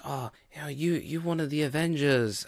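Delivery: mocking Yelena. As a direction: tease as if mock-impressed by a show-off. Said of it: "her making fun of Natasha".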